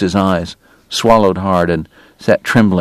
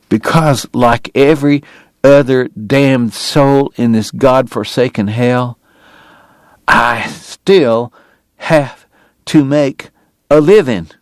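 higher, cracking with despair; voice breaking; 4 semitones higher, slower than usual. A narrator's reading. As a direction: let the voice break. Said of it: "His voice broke".

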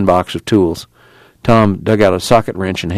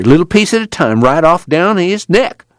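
panting fury; 9 semitones higher than usual. A narrator's reading. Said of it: "He panted with his fury".

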